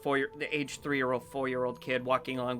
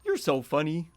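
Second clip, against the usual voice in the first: high, eager talking dog; Elm Tree; 10 semitones higher, 4 dB louder than usual. Acted. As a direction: start easy, then get high and excited about the toy. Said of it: "Elm Tree looks at Birch and goes".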